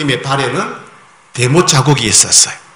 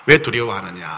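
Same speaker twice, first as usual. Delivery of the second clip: soft sorrowful; 6 semitones lower, 6 dB quieter than usual. Shown as a demonstration. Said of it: "너무 안타까운 모습".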